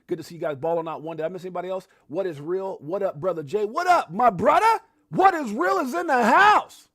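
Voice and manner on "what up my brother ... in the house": high, loud, slow drawn-out announcer voice; stretched hype call. Shown as a demonstration. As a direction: stretch every word like a ring announcer. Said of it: "My throat gets all scratched up".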